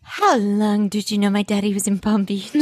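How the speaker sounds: hammed-up quote. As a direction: repeat it as a melodramatic parody. Co-host hams up the retold line.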